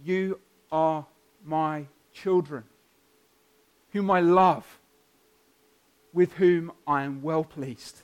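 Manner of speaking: slow, deliberate fatherly declaration; measured words with a pause after each phrase; God's voice. Acted. God speaking to each baptized child, solemn declaration. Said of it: "it's as though he says to each of them".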